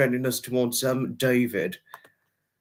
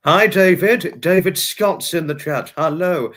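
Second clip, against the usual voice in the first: excited greeting; 4 semitones higher, 6 dB louder than usual. Real, not acted. Greets viewer arriving in chat.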